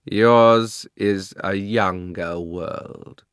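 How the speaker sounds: very slow, savouring queen's words; covetous slow murmur; slow greedy musing. A narrator's reading. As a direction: relish the discovery. Queen voiced.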